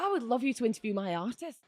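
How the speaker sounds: a faint, badly faked Scottish lilt; terrible Scottish accent. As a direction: attempt a Scot, amused at yourself. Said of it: "really terrible Scottish accent".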